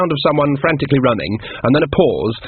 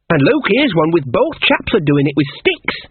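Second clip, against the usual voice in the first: higher, innocent fascination; wide-eyed naive Shawn; 5 semitones higher than usual. Acted. Shawn finds another woodcut, innocently fascinated. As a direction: point it out with naive wonder.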